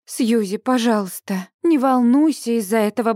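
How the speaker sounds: ordinary delivery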